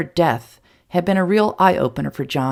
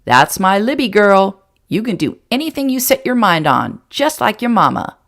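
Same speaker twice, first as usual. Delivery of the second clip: delighted grandfather; 5 semitones higher, 5 dB louder than usual. A narrator's reading. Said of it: "John laughed in delight".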